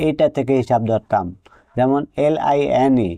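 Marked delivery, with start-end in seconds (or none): 2.3-3.1 very slow, letter-by-letter spelling of এলআইএনই. Shown as a demonstration. Teacher spells a word for students, drawn out letter by letter. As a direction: stretch out each letter of এলআইএনই. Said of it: "CBC rules হয়ে যেত".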